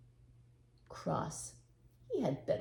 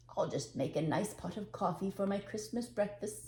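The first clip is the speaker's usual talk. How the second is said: cheerful; 3 semitones higher than usual. Acted. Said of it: "said Papa Panov to himself cheerfully".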